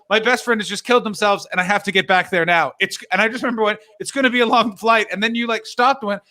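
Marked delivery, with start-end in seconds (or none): 0.1-1.5 bad news in a raised, falsely cheerful voice; high-pitched put-on cheer; pretend happy. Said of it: "have to just pretend to be happy". 1.5-2.7 imitating mild forced cheer; lightly put-on brightness over bad news; pretend happy. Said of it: "have to just pretend to be happy". 4.0-5.1 imitating forced cheer, pitched up; high, falsely chirpy greeting; pretend happy. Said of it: "have to just pretend to be happy".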